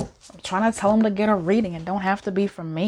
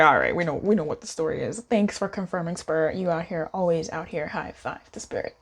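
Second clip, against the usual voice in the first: wry resignation; 3 semitones lower than usual. Retold or imitated. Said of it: "I was like".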